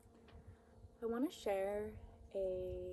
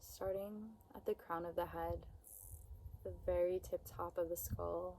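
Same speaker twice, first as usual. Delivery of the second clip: unhurried, soothing meditation voice; guided meditation. Acted. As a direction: guide them gently, with long pauses between phrases. Begins the body scan.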